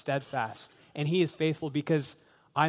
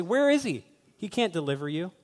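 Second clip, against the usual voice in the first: mocking scoffers; 3 semitones higher than usual. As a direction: voice the doubters' scoffing. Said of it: "people are probably gonna mock".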